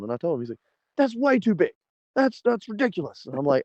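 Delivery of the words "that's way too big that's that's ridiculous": high-pitched, mock dismay; incredulous scolding. Organizer hears the tire sizes, imitated incredulous scolding.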